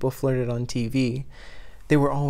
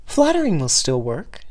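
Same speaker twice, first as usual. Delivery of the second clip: sly; 3 semitones higher, 4 dB louder than usual. Acted. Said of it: "she remarked slyly".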